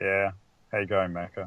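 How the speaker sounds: sounding upset. Greeting the co-host at the start of the podcast, sounding upset. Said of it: "Don't sound too, uh, too upset, mate".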